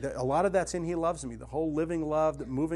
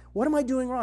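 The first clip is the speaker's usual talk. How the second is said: desperate plea; 10 semitones higher, 7 dB louder, faster than usual. Retold or imitated. Woman's despairing email question retold.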